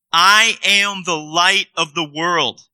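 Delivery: slow, deliberate scripture reading; read slowly. Shown as a demonstration. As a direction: let each word land slowly. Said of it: "I'm gonna read this slowly".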